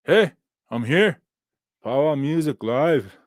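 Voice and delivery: slow, lightly put-on philosopher voice; a hint of grave thinker, drawn out slowly; mock-solemn reading, slow; Nietzsche voice. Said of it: "in a real Nietzsche voice".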